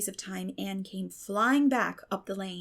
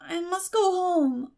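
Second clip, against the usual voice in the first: dull, determined; 9 semitones higher, 6 dB louder, slower than usual. A narrator's reading. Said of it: "stupidly but determinedly".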